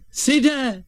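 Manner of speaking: high, delighted exclamation; feigned surprise. Acted. Boy pretending to recognise his brother, feigned surprise. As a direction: cry out the name as if astonished.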